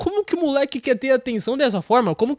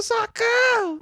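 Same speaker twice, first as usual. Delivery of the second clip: high-pitched squeal for help; mock scream; 13 semitones higher, much slower than usual. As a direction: panicky cartoon cry. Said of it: "ele saiu gritando".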